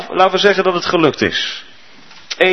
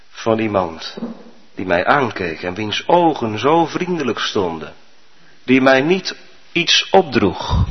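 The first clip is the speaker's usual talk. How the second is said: usual speaking voice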